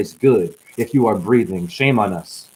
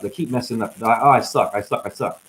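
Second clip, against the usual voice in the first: mock self-loathing. Voicing those who mess up, understated dejected self-loathing. Voices a self-hating person's thoughts.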